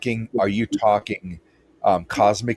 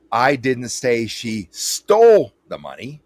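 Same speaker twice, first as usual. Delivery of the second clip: "stole" louder and slow, the whole line slowed; stress on STOLE; 5 dB louder than usual. Shown as a demonstration. Demonstrating emphasis to a guest, slow with "stole" pressed. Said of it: "whichever word I accentuate".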